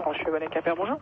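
tinny telephone sound; over the phone. Real, not acted. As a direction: voice through a phone line. Callee answers the phone. (au téléphone)

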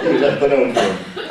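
loud, laughing delight. Real, not acted. Caller hearing about the brick note, laughing loudly. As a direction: laugh through the words.

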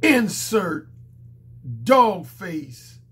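strained, hoarse and scratchy. Real, not acted. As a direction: push it through a sore throat. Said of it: "in my very strained, hoarse voice".

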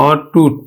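low, separated "aw-tut" for অটুট; open initial vowel. Shown as a demonstration. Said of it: "অ এর মতোই উচ্চারণ হবে". (অটুট-এর অ বিবৃত উচ্চারণ)

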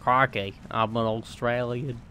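loud, badly faked Australian accent. Player claiming to be Australian, bad Australian accent. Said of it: "I don't do accents well".

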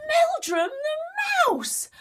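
very high, slow shouted name; slow high shouted reveal; dramatic reveal cry. A narrator's reading. Mouse revealed.

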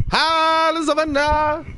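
put-on high, childish squeaky greeting; lightly high-pitched little kid; mocking kid voice. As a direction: mimic a little kid saying hi. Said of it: "they be like".

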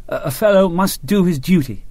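mildly earnest, with a small stammer at the start. A narrator's reading. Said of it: "Nichols had said earnestly".

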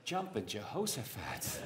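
slow, chuckling put-on voice; Dick Van Dyke. Comic mocking Dick Van Dyke's accent, chuckling. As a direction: ham up a folksy exclamation. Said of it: "Another great actor doing it is Dick Van Dyke".

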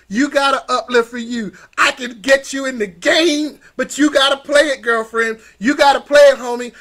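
rally them like a coach; fired-up, emphatic urging; rousing pep talk. Real, not acted.

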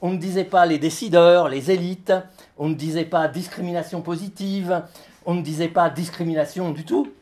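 measured list-poem recitation with pauses; declaimed text for an audience; live literary reading. Acted. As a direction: read it as a litany, item by item. Reads own text aloud.

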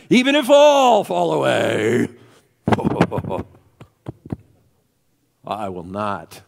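loud, drawn-out shout; blurted declaration. Acted. Peter blurting out his loyalty to Jesus, shouted declaration. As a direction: burst out with it, big and slow. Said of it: "now he blurts out".

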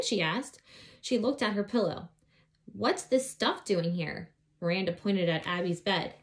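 put-on lively read-aloud voice for children; story narration. A narrator's reading. Reading a children's book aloud.

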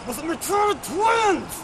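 loud punchline. Real, not acted. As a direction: stretch out the punchline. Punchline called out.

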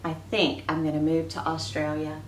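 reading a picture book aloud to the class; expressive read-aloud for children; story reading. Acted. Teacher reads story aloud.

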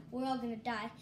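mock crying. Crying heard on line.

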